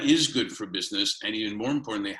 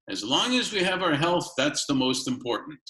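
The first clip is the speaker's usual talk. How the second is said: put-on grandparents' Kiev Russian accent, starting higher; 6 semitones higher than usual. Recalling grandparents' favourite line to the interviewee, light Kiev Russian accent. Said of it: "with a Kiev Russian accent".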